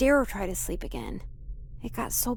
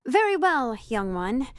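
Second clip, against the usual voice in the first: grand storyteller voice; 2 semitones higher, slower than usual. Pretend. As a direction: play the ancient cursed one telling her tale. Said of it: "You're no fun".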